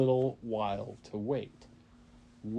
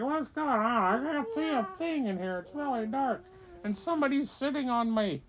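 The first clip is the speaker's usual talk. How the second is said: dragon in the egg; 12 semitones higher, 3 dB louder than usual. Acted. Dragon trapped inside the egg, high and bewildered. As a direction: squeak in the dark shell. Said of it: "And he's like".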